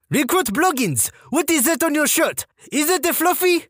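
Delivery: high French-Canadian female sergeant voice; French-Canadian accent. Retold or imitated. Female sergeant scolds recruit over fluff, French-Canadian accent. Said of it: "female French-Canadian sergeant with this accent".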